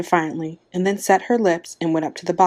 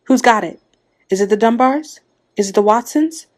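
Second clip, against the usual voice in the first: higher, louder, eager questioning; urgent crowd questions; 5 semitones higher, 5 dB louder than usual. A narrator's reading. Village women all asking at once who was picked, urgent. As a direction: fire off anxious questions, pitched up. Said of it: "all the women began to speak at once".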